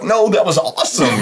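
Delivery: high-pitched, eager retort; acted enthusiasm, pitched well up; retold excitement. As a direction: imitate yourself being thrilled. Retelling his own thrilled reply.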